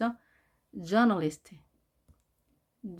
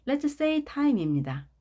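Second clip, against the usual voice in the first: quiz announcer; 6 semitones higher, much slower than usual. Acted.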